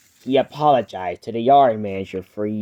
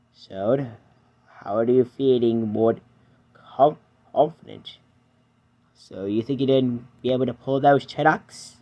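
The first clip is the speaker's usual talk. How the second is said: Edward's voice. Acted. Edward reassures.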